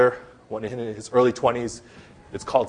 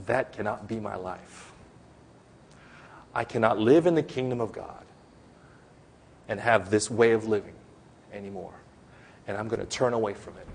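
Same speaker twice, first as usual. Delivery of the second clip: sincere repentance; 2 semitones lower, 5 dB quieter than usual. Acted. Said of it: "That's repentance".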